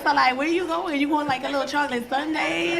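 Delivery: imitating teen daughter. Comic mom plays her nineteen-year-old daughter, lightly voiced and loud. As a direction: rattle off questions like a nosy teen. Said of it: "She be like".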